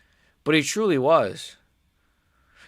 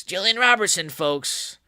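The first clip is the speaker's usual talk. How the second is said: mock hype announcement; 6 semitones higher than usual. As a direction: hype the fighter up for the crowd. Same announcement, hyped second time.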